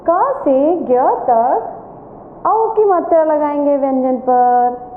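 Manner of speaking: slow, clear classroom explanation; slow teacher answer. Shown as a demonstration. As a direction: spell it out slowly for the class. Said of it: "तो आज हम इस page में क्या करेंगे?". (धीमे, साफ़ शिक्षक की आवाज़ में)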